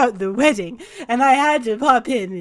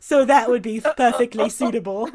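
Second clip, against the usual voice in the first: flustered visitor. Acted. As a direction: recover awkwardly from the surprise. Vander fumbles, then accepts.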